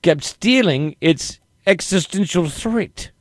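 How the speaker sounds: slow, deliberate bad British accent; muddled stab at a London accent. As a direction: drag it out in badly faked British. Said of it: "That was a British accent".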